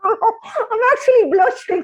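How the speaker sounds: bashful laugh at the host's praise; laughing, blushing. Real, not acted. Guest thanked by host, laughing shyly. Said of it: "I'm blushing".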